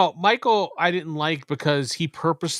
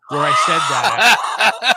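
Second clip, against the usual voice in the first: laughing; 2 semitones higher, 8 dB louder, much slower than usual. Real, not acted. Telling story, laughing.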